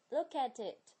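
"Look at it" run together as "loo-ka-tit"; linked reading. Shown as a demonstration. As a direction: link each final consonant in "Look at it" onward. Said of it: "就是连读".

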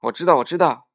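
impatient bunny yelling; clamouring shout. A narrator's reading. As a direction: shout it over the speaker, cocksure. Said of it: "又嚷嚷着".

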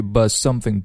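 "but something" with no t in but; dropped t. Shown as a demonstration. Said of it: "but的t不读出来".

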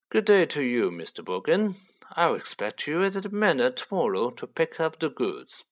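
lightly voiced haughty gentleman; polite, superior leave-taking; a hint of lordly composure; formal Malfoy farewell.

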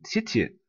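titi as two short syllables; syllables sounded out. Shown as a demonstration. Teacher points to the word's sound, titi sounded out alone. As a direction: sound out titi from the start of titillate. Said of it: "我们看这个单词的读音".

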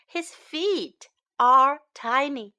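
"His feet are tiny" word by word, with gaps. Shown as a demonstration. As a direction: separate each word for learners. Slow model take, then faster repeat.

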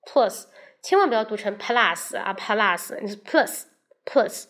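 plus said slowly and carefully; model plus. Shown as a demonstration. Teacher warns against misreading plus. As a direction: contrasts the right plus with the wrong one. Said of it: "这个词读plus".

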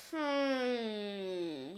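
a detective's quiet considering hum; thoughtful detective. Acted. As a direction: ponder the case aloud. Detective thinks.

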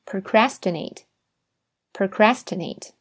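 slow whisper of "procrastinate", twice; whispered repeat. Shown as a demonstration. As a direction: whisper it slowly for students to copy. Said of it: "大家跟我重复两遍".

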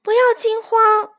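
high, commanding call; loud shout. A narrator's reading. Mother hen steadying the flock, loud shout. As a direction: shout over the commotion. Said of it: "卡梅拉大喊道".

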